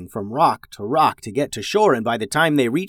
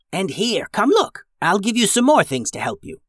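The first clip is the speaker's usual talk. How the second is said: put-on high, beckoning old witch; 7 semitones higher than usual. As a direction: call them over kindly. Old witch voiced in story.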